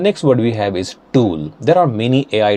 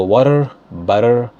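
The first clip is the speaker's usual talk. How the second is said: American accent. Shown as a demonstration. Teacher reading vocabulary first in American accent. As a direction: read the words with an American accent. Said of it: "read this first in American accent".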